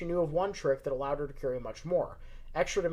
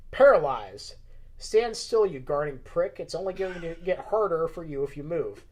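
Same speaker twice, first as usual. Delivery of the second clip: commanding spell voice; 6 dB louder than usual. Acted. Casting a spell on guard.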